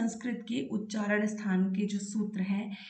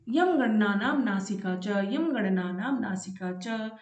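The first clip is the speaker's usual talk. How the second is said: sutra recitation. Shown as a demonstration. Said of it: "देखिए छठा सूत्र क्या कहता है".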